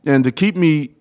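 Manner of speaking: talking around Invisalign trays; words round a mouthpiece; mouth full. Real, not acted. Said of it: "I can barely talk with this stuff in my mouth".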